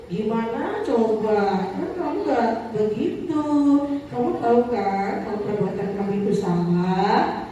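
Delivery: slow, low, gentle reproach; soft guilt-tripping. Retold or imitated. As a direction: quietly make them feel they let you down. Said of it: "Ngomongnya lembut". (teguran lembut yang membuat merasa bersalah)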